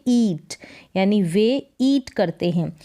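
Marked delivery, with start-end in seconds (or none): 0.1-0.5 ईट with a long ee vowel; pronunciation demo. Shown as a demonstration. Teacher showing pupils how to read the word, pronunciation demo of ईट. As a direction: say ईट as long "eet". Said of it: "इसको पढ़ेंगे".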